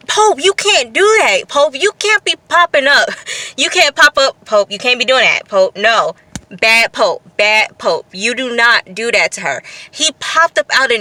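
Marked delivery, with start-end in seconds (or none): 0.1-9.6 mock scolding. Recapper scolding Pope for popping up, mock stern. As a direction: tell him off like a bad dog.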